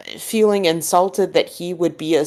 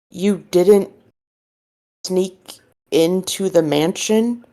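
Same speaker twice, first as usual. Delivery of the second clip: confused question; 3 semitones higher than usual. Acted. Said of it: "He looks at you confused and says".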